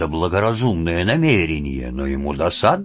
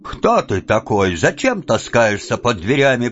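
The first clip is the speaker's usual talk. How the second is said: sterner; 5 semitones higher than usual. Acted. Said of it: "произнёс кузнец суровее прежнего".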